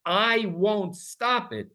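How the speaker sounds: very slow, measured, solemn words; God's slow, deliberate promise. Retold or imitated. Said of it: "God says".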